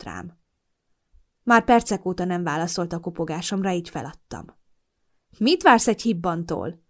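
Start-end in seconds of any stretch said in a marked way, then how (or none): 5.4-6.8 grumbling. Acted. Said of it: "dohogott morcos Molly".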